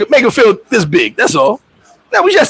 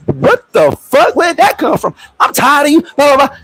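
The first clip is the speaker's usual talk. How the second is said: imitating annoyed friend; 8 semitones higher than usual. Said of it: "They be like".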